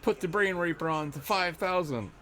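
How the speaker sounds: high-pitched, hammed-up command; put-on high villain voice; mock villain order. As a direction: give the order like a gleeful cartoon henchman. Acts villain giving an order.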